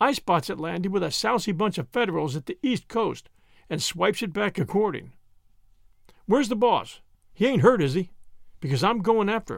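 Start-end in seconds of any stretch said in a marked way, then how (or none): none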